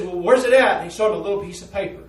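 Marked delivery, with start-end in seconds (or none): 0.0-0.8 loud challenge. Retold or imitated. Prisoner's suspicious challenge.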